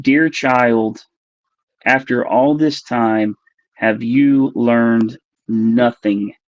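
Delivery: slow, measured, retold scolding; agitated reproach. Cloaked being scolding the abductee in her head, slow agitated reproach. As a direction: draw each phrase out, imitating a stern rebuke. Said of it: "then she got agitated again".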